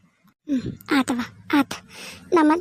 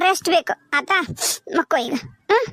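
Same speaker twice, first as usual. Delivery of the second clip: soft and crying, coaxing him to sleep; tearful soothing; 4 dB quieter than usual. Acted. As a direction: hush him gently through tears. Tearful mother soothing sick son. (ಅಳುತ್ತಾ ಮೃದುವಾಗಿ ಸಮಾಧಾನ)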